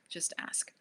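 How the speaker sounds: soft whispered invitation; just breathe it to them; whispered aside to viewers. Real, not acted.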